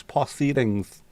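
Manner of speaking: Proceedings drawn out slowly and savoured; slow, relished Proceedings; slow mocking repeat. Shown as a demonstration. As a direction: stretch out Proceedings, syllable by syllable.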